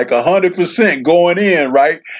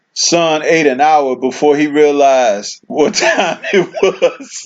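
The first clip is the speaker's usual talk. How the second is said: slow read that breaks into laughter; chuckling over the joke as he reads it; laughing while reading; slower than usual. Real, not acted. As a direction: laugh your way through the message. Reading a funny chat message.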